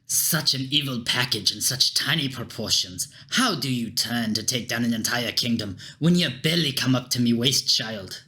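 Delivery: put-on a light Scottish guard accent; gruff Scottish soldier, lightly voiced. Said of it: "Don't know why everyone is fucking Scottish".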